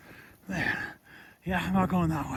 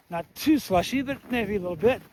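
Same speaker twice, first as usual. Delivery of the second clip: struggling to speak, out of breath; gasping between words; 3 semitones higher than usual. Real, not acted. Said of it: "as I'm struggling to speak".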